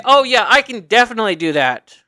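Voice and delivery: assured, leaning into "definitely"; persuasive tone. Shown as a demonstration. Applicant assuring an interviewer they can do it, persuasive. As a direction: say it like you really mean it. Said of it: "the tone of it is".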